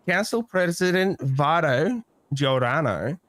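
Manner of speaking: slow title, name said with flourish; slow name again. Shown as a demonstration. Naming the council president for the viewers, slowly. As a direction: roll out Vito Giordano grandly. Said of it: "love the way you said his first name".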